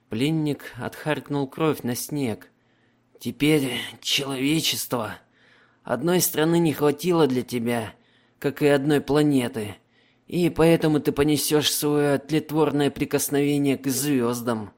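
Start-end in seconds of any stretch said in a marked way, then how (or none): 3.2-14.7 wounded prisoner voice. Acted.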